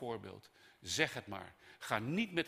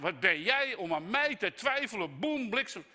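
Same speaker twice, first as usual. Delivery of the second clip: loud, high thundering rebuke; wrathful Allah; 10 semitones higher, 9 dB louder than usual. Acted. Preacher voicing Allah rebuking a doubter, thundering. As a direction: strike them down with the voice. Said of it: "Allah zegt".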